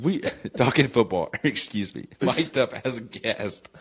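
after laughing hard. Real, not acted. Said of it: "I'm crying laughing".

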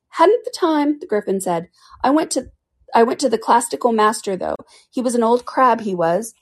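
high gruff creature, lightly done; lightly voiced Griffin. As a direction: brag a little about the crab. Griffin recalls his master.

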